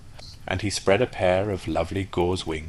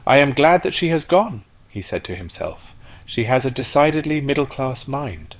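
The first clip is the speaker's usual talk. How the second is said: higher, louder, snobbish rocket; sniffy rocket; 7 semitones higher, 5 dB louder than usual. Acted. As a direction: sniff at her to save face. Rocket sulks to himself.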